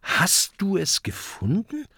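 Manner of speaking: high, hushed amazement; baffled question. A narrator's reading. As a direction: ask in breath-held surprise. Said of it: "fragt Kokosnuss verblüfft".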